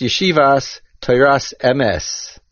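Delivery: "Yeshivas Toras emes" with "emes" as e-MES; correct accentuation. Shown as a demonstration. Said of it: "should be pronounced".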